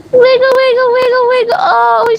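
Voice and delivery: very high, cooing wiggle wiggle. Real, not acted. Owner cooing at the wiggling dog, very high baby talk. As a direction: coo at her like a puppy.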